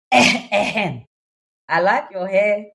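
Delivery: drawn-out laughing quote, very slow; can barely get the words out for laughing; laughing through it. Retold or imitated. Laughing while quoting the man.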